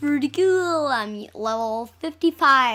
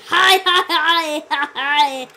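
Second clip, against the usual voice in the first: imitating game laugh; 2 semitones higher, 7 dB louder, slower than usual. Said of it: "it sounds like he's saying".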